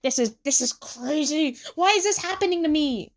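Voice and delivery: half-screamed disbelief, rising in panic; Tsukasa. A narrator's reading. Tsukasa finds it wasn't a dream, mild scream. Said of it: "Tsukasa screams".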